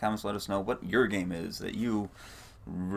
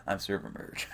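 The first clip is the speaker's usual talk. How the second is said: dramatic character intro; 5 dB quieter than usual. Pretend. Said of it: "new character in the next game".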